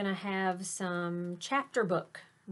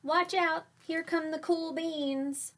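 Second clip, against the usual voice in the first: higher, slower hype-up for the cool beans; grand announcement; 9 semitones higher, slower than usual. A narrator's reading. Teacher hyping the cool beans' entrance to kids, showy announcer voice. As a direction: announce them like stars arriving.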